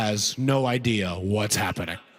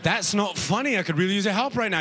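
higher-pitched, protesting British visitor; British accent; 5 semitones higher than usual. Acted. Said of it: "like a British person".

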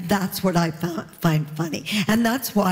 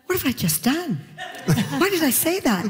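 laughing; 6 semitones higher than usual. Retold or imitated. Retelling daughter's panicked thought.

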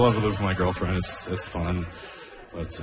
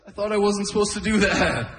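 lightly voiced puzzled old man; 12 semitones higher than usual. Old man's reply.

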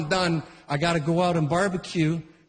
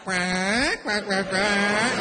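slow drawn-out duck quacks; 3 semitones higher, much slower than usual. Retold or imitated. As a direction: quack slowly like a scolding female duck. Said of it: "in the water is like".

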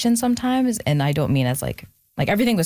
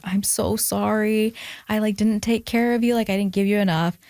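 mildly pleading, pitched up; apologetic mother; 5 semitones higher than usual. Retold or imitated. Retelling mother's apologetic phone call.

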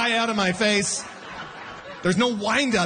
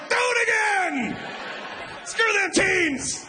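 high, slow, whooping shout; excited cheering; slower than usual. Retold or imitated. Me on the beach cheering the old man, whooping. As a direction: egg him on, yelling.

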